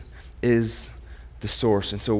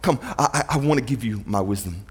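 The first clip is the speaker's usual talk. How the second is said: inviting God voice; 3 semitones lower, 3 dB quieter than usual. Retold or imitated. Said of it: "He actually says".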